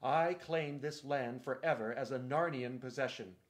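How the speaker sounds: loud, imperious royal decree; commanding proclamation. Acted. Caspian claiming the island before his companions, loud decree. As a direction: proclaim it like a king binding subjects.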